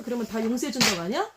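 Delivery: mock the believers. Unbeliever mocking Christians, sneering. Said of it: "이런 말 많이 들었어요".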